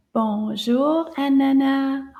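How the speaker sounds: a loud, rising bonjour to call her; loud greeting. Shown as a demonstration. Teacher modelling a loud greeting for the children. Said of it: "Nice and loud".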